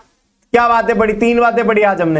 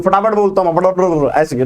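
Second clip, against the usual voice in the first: quick patter showing own speed; demonstrating fast talk; rapid-fire; 2 semitones lower than usual. Shown as a demonstration. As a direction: rattle it off briskly. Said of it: "मैं बोलता बहुत तेज हूँ".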